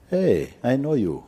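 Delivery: high, loud eager hello; overjoyed stranger calling out; excited greeting. Retold or imitated. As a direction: call out like an old friend. Man in car greets excitedly.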